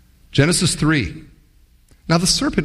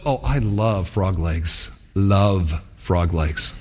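dreamy craving fish; 7 semitones lower, much slower than usual. Pretend. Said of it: "the heart goes".

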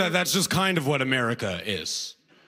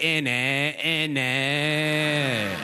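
sing-song, stretched mock British; mock British accent; much slower than usual. Listener keeps mimicking British sounds, sing-song mock British accent. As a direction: chant it in exaggerated British vowels. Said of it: "They're just making sounds you like".

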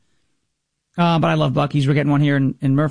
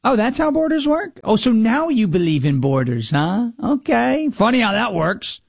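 sarcastic retort; 5 semitones higher than usual. Retold or imitated. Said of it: "And I was like".

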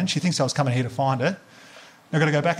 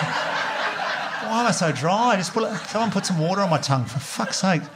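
high, slow, croaking plea for water; parched hungover plea; 5 semitones higher than usual. Retold or imitated. Hungover man begging someone for water, high parched whine. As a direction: drag out a parched whine, pitched up.

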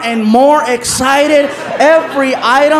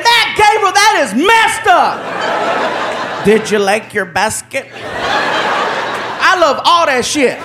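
laughing protest; 4 semitones higher, much slower than usual. Retold or imitated. Victim complaining, laughing.

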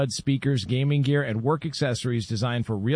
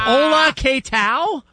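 mock Spanish accent; 11 semitones higher, 6 dB louder, much slower than usual. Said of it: "mock Spanish greeting".

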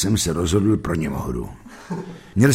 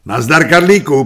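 a chummy greeting, higher and louder; familiare e confidenziale; 6 semitones higher, 7 dB louder than usual. A narrator's reading. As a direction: greet an old pal, voice lifted. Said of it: "pozdravil jsem důvěrně".

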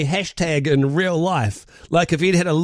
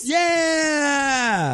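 high excited scream; 11 semitones higher than usual. Shown as a demonstration. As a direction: yell it like the crowd at a gig. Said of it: "we need to see what it sounds like".

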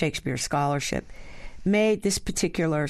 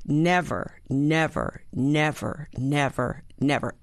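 every "Never" stressed on its first syllable, falling; five separate strong-weak "Never" beats, paused between; upside-down rhythm; slower than usual. Acted. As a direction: toll out each "Never" evenly as a falling trochee. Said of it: "Everything's upside down".

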